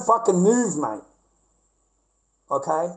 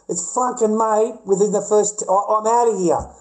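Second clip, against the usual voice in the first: higher and louder, fed up; worked-up rant; 4 semitones higher, 4 dB louder than usual. Real, not acted. Ranting to viewers about a date, higher and louder. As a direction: blurt out how fed up he was.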